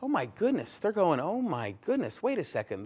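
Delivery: high, mock-panicked "oh my goodness"; a light hint of panic; nervous crowd. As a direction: play the frightened listeners. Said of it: "They were nervous".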